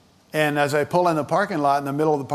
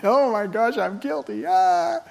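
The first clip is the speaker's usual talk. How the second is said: high, hammed-up panicked cry; mock panic; 6 semitones higher than usual. Preacher mimics someone fleeing the law, mock panic. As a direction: play a guilty sinner running off screaming.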